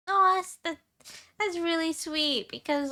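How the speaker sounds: high, stammering gush; flustered and touched. Real, not acted. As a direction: caught off guard by kindness. Touched by a compliment.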